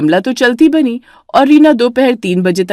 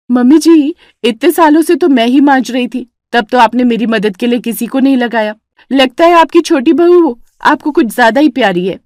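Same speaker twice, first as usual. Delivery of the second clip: higher, louder aggrieved whine; higher pleading complaint; complaining sister-in-law; 4 semitones higher, 3 dB louder than usual. Acted. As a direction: play the wronged martyr. Vimla complains again.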